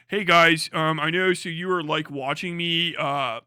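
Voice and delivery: halting put-on British YouTuber; Pyrocynical. British YouTuber greeting his viewers before an apology, mock British accent. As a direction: do a British YouTuber's awkward opening, loud at first. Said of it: "do the fucking Pyrocynical".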